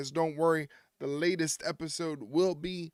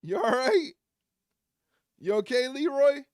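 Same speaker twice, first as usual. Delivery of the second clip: louder, higher call across the room; 8 semitones higher, 5 dB louder than usual. Real, not acted. Owner calling out to Leroy across the room, loud.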